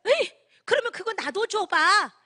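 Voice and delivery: high, loud eager plea; a friend's keen, pleading ask; eager request. Retold or imitated. Friend asks for the product.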